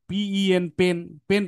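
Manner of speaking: no puff of air on পি or পেন; পেন starting on plain প; wrong pronunciation. Shown as a demonstration. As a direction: spell পি E N, then পেন with an unaspirated p. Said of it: "কিন্তু এটা তো পি না".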